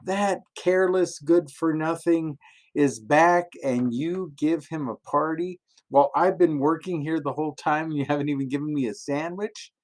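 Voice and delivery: high-pitched, indignant outburst at the father; angry complaint. Acted. Older son complains to his father, high and indignant. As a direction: let the resentful older son boil over. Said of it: "And he gets mad".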